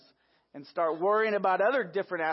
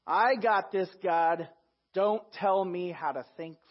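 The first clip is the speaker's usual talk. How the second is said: mock defiance; 3 semitones higher, 5 dB louder, slower than usual. Voicing self-reliance to God.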